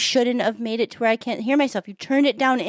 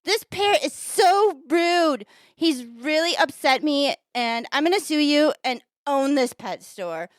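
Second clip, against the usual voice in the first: indignant complaint, higher and slow; outraged customer; 4 semitones higher, slower than usual. Acted. Lady complaining to the pet store owner, outraged. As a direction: lay out each grievance with emphasis. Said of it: "and says to the pet store owner".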